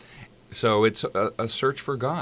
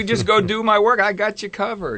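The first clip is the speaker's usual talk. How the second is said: put-on higher, far-off old man accent; old Jewish man voice; 8 semitones higher, 4 dB louder than usual. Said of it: "I could hear him in an old Jewish voice".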